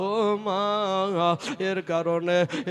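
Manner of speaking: loud, slow, wailing, pleading voice.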